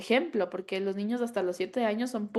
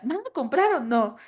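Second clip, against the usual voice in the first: annoyed vendor; 5 semitones higher, 5 dB louder than usual. Retold or imitated. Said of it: "el señor ya súper molesto".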